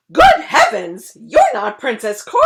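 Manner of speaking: loud, high startled cry; king realizing the truth; cried out. Acted. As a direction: gasp it in alarm. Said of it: "The king cried out".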